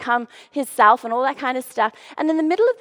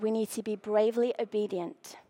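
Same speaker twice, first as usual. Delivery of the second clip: a low breathy whisper, no voice at all; 4 semitones lower, 9 dB quieter than usual. Shown as a demonstration. Preacher whispering the key line to the congregation. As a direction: lean in and whisper the words.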